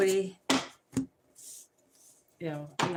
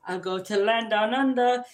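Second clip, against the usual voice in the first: Waldo voice; 3 semitones higher, 6 dB louder than usual. Pretend. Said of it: "he's like".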